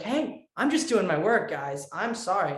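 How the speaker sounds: mock-innocent excuse to parents; imitated protest. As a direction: plead your case, playfully. Acts out own protest to parents.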